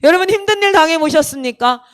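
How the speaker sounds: lightly imitated preacher addressing the room; a hint of pulpit projection; pastor's appeal. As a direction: put each question earnestly to the congregation. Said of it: "막 이런 얘기를 하는 거예요".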